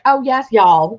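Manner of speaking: mock thick Southern accent. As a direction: put on a Southern twang. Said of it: "it's very thick".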